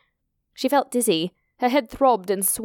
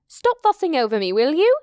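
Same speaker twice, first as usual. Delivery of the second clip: higher-pitched, louder irritated outburst; annoyed bawl; 7 semitones higher, 4 dB louder than usual. Acted. Alex to a fussing Hita, annoyed bawl. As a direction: bawl at her to back off, pitch climbing to the end. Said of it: "Alex bowled at her".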